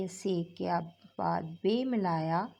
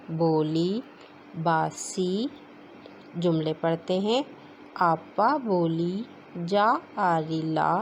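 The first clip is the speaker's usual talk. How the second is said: classroom reading drill. Acted. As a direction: read each word out for the children to repeat. Teacher drills Urdu reading aloud.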